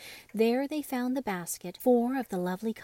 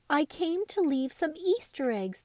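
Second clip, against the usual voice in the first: queer quavery voice; 7 semitones higher, 3 dB louder than usual. Acted. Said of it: "in a queer little quavery voice".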